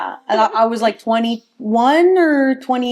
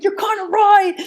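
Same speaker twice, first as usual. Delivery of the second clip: giggly admission; 11 semitones higher than usual. Retold or imitated. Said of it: "I was like".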